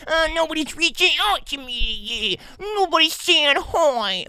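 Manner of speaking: high, slow, whiny poor-me voice; mock self-pity. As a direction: ham up feeling ignored. Mocking his own self-pity.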